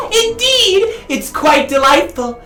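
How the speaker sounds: refined voice. Acted. Character acts refined.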